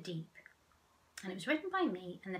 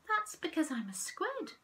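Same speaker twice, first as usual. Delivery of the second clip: Stefano; 9 semitones higher than usual. Acted. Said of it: "said Stefano".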